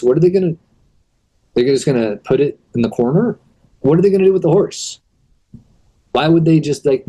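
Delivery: rising disbelief, fast at the end; incredulous rant. Real, not acted. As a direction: rant about how absurd it is. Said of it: "did a little quick rant here".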